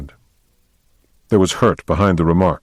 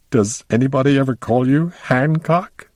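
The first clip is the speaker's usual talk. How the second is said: high, giggly voice bubbling through the words; giggling question; 9 semitones higher than usual. A narrator's reading. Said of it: "she giggled".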